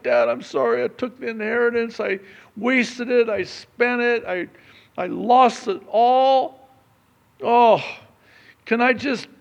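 loud, high pleading son, lightly voiced; rehearsing son. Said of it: "He was rehearsing what he was gonna say".

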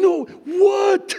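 high, loud frustrated shout at the TV; yelling at the TV. Retold or imitated. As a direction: shout at the screen in sheer frustration. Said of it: "As I'm just yelling".

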